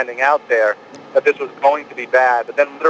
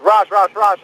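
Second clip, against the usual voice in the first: calling out a name; 6 semitones higher, slower than usual. Retold or imitated. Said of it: "he turned to me and he said".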